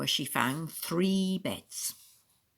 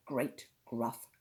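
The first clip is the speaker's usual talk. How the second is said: low, softer growling narration; gruff growl; 5 semitones lower, 5 dB quieter than usual. A narrator's reading. Narrator describes Father Bear's voice, low and gruff. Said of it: "gruff, growling voice".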